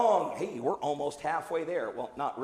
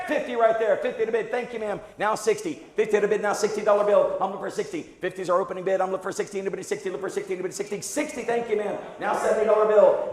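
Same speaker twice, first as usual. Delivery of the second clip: auctioneer; 2 semitones higher, 3 dB louder than usual. Acted. Auctioneer calling bids.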